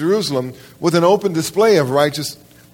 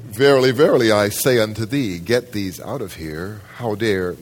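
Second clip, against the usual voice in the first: mock cool Jesus; 4 semitones lower than usual. Preacher mocking a calm Jesus telling traders to leave. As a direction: parody a too-serene Jesus. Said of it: "we think Jesus is always cool".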